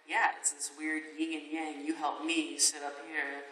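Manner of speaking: mock serious voice. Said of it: "I'll put on my serious voice".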